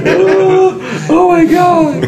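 high laughing oh my God. Real, not acted. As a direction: laugh through the words. Laughing fit at pun.

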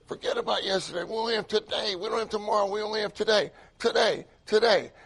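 a touch of Brother Lee's insistent repeating; easy retold pulpit cadence; mild preacher imitation. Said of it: "Brother Lee kept saying".

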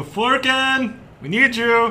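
put-on high, loud creaky old man yelling. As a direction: shout like a frail old man calling. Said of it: "your old man impression again".

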